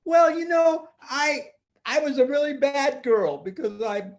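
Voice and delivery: put-on little girl voice. Tina voiced high.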